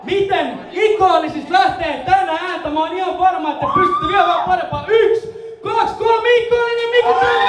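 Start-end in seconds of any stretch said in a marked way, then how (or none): 4.9-7.4 rising count, called out higher to the crowd; hype count-in. Real, not acted. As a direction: count them in and shout the last line. (innostunut huuto yleisölle)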